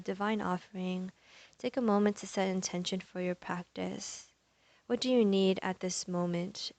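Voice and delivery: calm, unhurried yoga teacher cueing; measured meditation voice with long pauses; guided meditation. Real, not acted. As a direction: guide them gently into the breath, leaving space. Leads breathing and intention setting.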